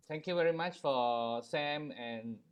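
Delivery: distant, thin voice far from the mic; talking away from the phone; phone held away. Real, not acted. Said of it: "speak into the phone. We cannot hear you that well".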